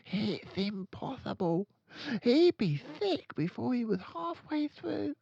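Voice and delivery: put-on high girl's voice, lightly hushed; hushed child. A narrator's reading. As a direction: answer your friend, sure of it. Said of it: "Lavender whispered back".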